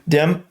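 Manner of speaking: "Dem" for "them", starting on D. Shown as a demonstration. Husband echoing his wife's word, "Dem" with D for TH. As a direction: swap the TH for D in "Dem". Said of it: "T H equals D".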